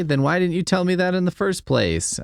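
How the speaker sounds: ordinary talk, nothing marked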